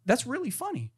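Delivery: breezy boss shrugging it off; lightly voiced CEO.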